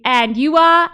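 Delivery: imitated British accent. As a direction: ask it as a British host, put-on accent. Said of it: "But, like, British accent".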